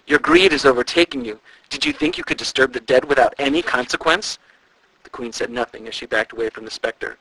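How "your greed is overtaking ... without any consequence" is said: high, loud eerie ghost voice; ghostly moan. A narrator's reading. The ghost warning the queen, eerie ghostly moan. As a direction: wail the warning like a specter. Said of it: "the man moaned".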